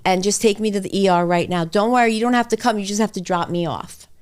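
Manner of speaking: loud, hurried mock panic; imitating herself insisting she's dying; panicked plea. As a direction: beg to be rushed to the ER. Retelling panicked pleas to husband.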